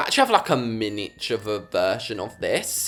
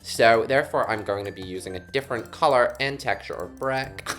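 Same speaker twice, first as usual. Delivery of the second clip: put-on American accent; 3 semitones lower, 4 dB quieter than usual. YouTuber giving building advice, in a put-on American accent. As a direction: talk like an American for a moment. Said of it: "if I had an American accent".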